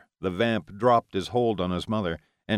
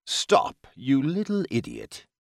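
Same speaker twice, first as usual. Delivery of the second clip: angry command; 5 semitones higher, slower than usual. A narrator's reading. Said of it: "the vampire's command".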